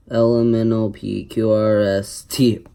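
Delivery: burped letters; talking while burping. Real, not acted. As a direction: burp out the letters. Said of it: "burping the alphabet".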